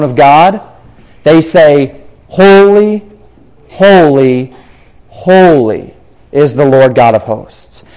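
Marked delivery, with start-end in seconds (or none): 2.3-7.8 "Holy, holy, holy" in separate beats, stepping down in pitch; emphatic repetition. Retold or imitated. Seraphim declaring God's holiness, "holy" repeated with spaced emphasis. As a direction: pause after each "holy", the later ones lower and drawn out. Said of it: "The highest possible emphasis".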